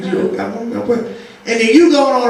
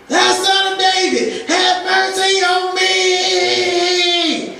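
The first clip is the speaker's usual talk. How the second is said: hollering plea; 5 semitones higher, much slower than usual. Retold or imitated. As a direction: belt it out like a beggar begging for mercy. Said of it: "he kept on hollering".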